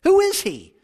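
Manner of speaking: imitating an exasperated husband, pitch leaping on the question; frustrated husband. George questions his wife about the hug, mock frustration. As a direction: demand an explanation, voice jumping up. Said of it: "George looks at her kind of frustrated".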